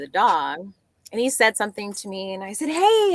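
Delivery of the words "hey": high, loud call of hey. Retold or imitated. Retelling calling to a man with a dog, loud high hey. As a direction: grab the passerby's attention.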